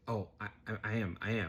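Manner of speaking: soft, stammering mock reassurance; feeble excuse. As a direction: imitate an adult weakly fobbing off a child. Observer makes weak excuse.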